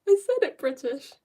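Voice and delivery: retold exasperated protest; protesting retort. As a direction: retort in mock indignation. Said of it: "I was like".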